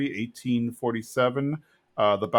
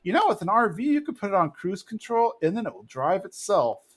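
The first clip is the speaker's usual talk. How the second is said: much higher, airy know-it-all lilt; ditzy Luann; 7 semitones higher than usual. Retold or imitated. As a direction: explain it like it's obvious. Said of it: "Luann's like".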